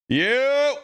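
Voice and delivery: greeting that breaks into a squeaky crack; sudden yelp of a cracking voice. Real, not acted. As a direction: voice cracks high and loud on the greeting. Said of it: "Holy voice crack".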